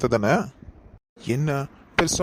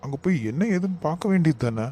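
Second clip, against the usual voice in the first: high-pitched, incredulous scolding; alarmed, raised-pitch reproach; indignant disbelief; 5 semitones higher than usual. Acted. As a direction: start high in disbelief, then press them to act. Alarmed at household fight, scolds relative.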